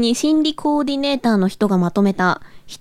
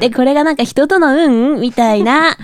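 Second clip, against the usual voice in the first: japanese gyaru slang; 3 dB louder than usual. Acted. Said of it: "ギャルっぽく無理があるよね".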